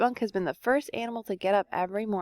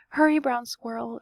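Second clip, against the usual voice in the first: calling out; 3 semitones higher than usual. Acted. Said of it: "she called".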